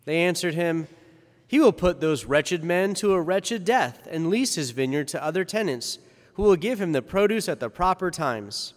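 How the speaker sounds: formal liturgical reading voice; Gospel reading. Acted. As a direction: proclaim the Gospel solemnly.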